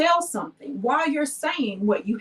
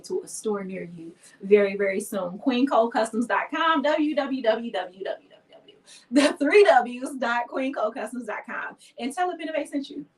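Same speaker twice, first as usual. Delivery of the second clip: commercial voice. Pretend. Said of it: "Now that's how you do an ad".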